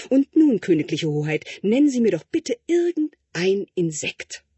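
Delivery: butter up the prince with strained politeness; fawning tutor. Acted. Tutor fawning over the prince in his exam, lightly voiced.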